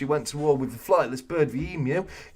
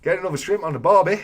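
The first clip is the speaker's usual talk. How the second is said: higher, quick mock Australian catchphrase; Australian accent; 5 semitones higher, faster than usual. Host teases Australian viewers, hammed-up Australian accent. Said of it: "wildly inappropriate, uh, accent right there".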